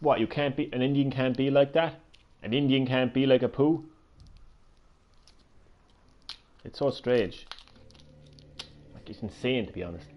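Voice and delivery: talking while chewing; chewing sweets mid-sentence; mouth full. Real, not acted. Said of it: "sorry, I'm eating some Chewits at the same time".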